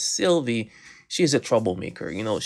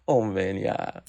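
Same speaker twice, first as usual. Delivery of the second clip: laughing; 13 semitones higher, slower than usual. Real, not acted. Laughing at kids' imitation.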